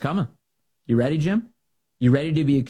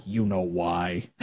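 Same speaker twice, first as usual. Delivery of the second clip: knowing chuckle; 6 semitones lower, 4 dB quieter, much slower than usual. Real, not acted. Knowing slow aside, laugh.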